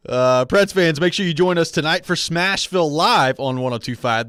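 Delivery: upbeat radio promo read; sports radio announcer plugging a show. Acted. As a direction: read the show plug with lifted, punchy emphasis. Reads show promo on air.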